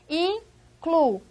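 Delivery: incluído cut into in, clu, í, do; very slow incluído, each syllable alone. Shown as a demonstration. Teacher separates incluído for students, syllable by syllable. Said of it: "olha a pronúncia".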